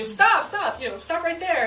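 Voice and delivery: high, loud mock yell; re-enacted shrill order to halt; shrill stressed yell. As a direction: yell it with the voice shooting up.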